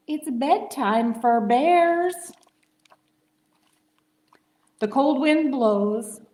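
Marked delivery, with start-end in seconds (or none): 0.1-2.3 fretting mole. Acted. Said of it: "Mole frets and he fusses".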